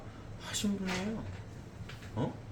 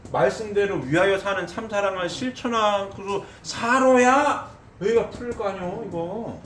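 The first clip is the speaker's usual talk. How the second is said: fiery preaching; 8 semitones higher, 5 dB louder than usual. Acted. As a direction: drive it home from the pulpit. Preacher arguing at full force.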